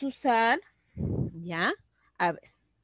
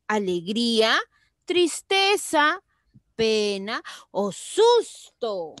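emphatic teaching; 3 semitones higher, 5 dB louder than usual. Shown as a demonstration. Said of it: "Seguimos, miren".

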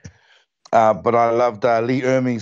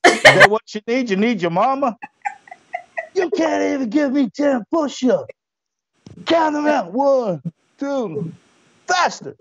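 high, taunting drill-sergeant yell; mocking drill sergeant; 13 semitones higher than usual. Sergeant mocking cadets doing push-ups, high taunting yell. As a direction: bark the taunts at the recruits. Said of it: "I'm just drilling them".

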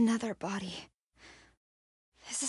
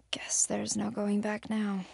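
hushed whisper to herself; a whisper so nothing hears. Acted. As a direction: breathe it out under her breath. Sneaking alone in dark place.

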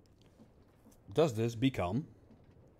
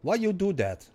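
higher and louder, easing off down the list; exasperated whining; 6 semitones higher, 5 dB louder than usual. Real, not acted. Gamer whining at the stuck factory, exasperated then fading. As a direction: vent at the game, then run out of steam. Game keeps going wrong, venting.

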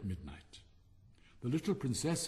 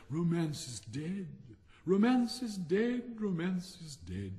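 murmured; 7 semitones higher, slower than usual. A narrator's reading. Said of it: "she murmured".

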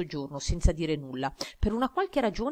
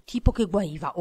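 snapping impatiently; 4 dB louder than usual. Acted. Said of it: "Oghi è sbottata".

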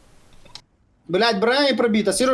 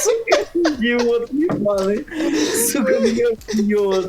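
tearful laughing curses; half laughing, half crying; 3 semitones higher than usual. Real, not acted. Laughing-crying after dying.

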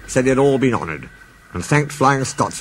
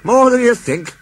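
laughing; 12 semitones higher, 6 dB louder than usual. Acted. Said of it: "he laughed".

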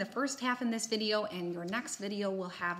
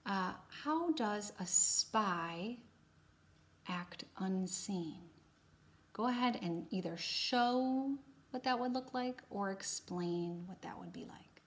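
spy whisper. Pretend. Teacher whispering the spy question to students, hushed. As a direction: whisper like a spy sneaking unseen.

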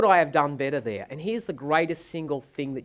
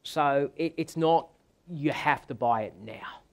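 meek hesitant plea; 4 semitones lower, 7 dB quieter than usual. Retold or imitated. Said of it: "in my typical way".

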